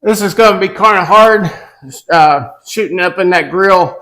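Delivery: muffled through a mask; through a face mask. Real, not acted. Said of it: "I'm gonna try to talk through the mask".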